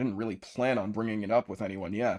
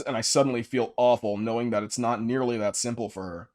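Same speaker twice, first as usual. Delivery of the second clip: normal talking voice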